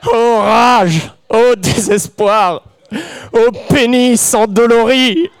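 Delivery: loud, high theatrical outcry; mock-tragic lament. Storyteller lamenting the interrupted first time, mock-tragic and loud. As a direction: declaim it like a hammed-up tragic hero.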